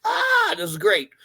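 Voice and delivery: high mock-thrilled reaction; mock delight. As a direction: squeak it out like a delighted fan. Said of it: "and I was like".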